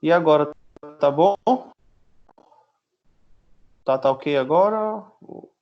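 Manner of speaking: glitchy robotic voice over a bad connection; choppy, robotic internet-call audio. Real, not acted. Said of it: "Tá parecendo voz de robô".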